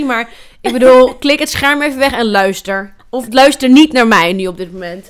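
blocked nose from a cold; stuffy cold voice. Real, not acted. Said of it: "Ik ben zo verkouden".

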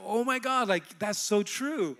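high, slowing retold amazement; amazed realization. Man seeing good in his life, amazed realization. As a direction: marvel as the truth lands.

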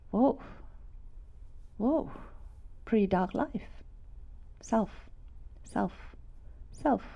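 soft, hushed words of dawning shame; hushed realization. Retold or imitated. To the congregation, reliving her inner voice, hushed. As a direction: whisper it like you just saw yourself.

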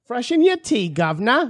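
high, hammy chimney-sweep Cockney; bad Cockney accent. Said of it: "like chimney sweep".

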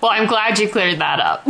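laughing, amused reply to a joke. Real, not acted. Co-host jokes about the orgy disclaimer.

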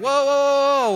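loud, high drawn-out whoa; mock alarm, putting the brakes on; taken aback. Partner reacting to being rushed, mock alarmed.

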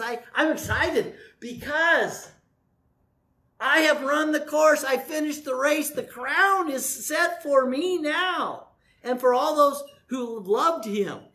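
voicing Paul glad at the end of the race; excited Paul. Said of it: "He kinda sounds like he's a little excited".

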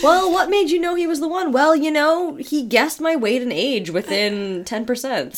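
put-on high, sweet old-fashioned voice; high old-timey lady. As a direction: play a gushing old-time wife. Mock interview as a wife.

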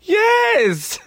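high laughing shout; laughing yes. Real, not acted. Friend confirms the poo party line, laughing.

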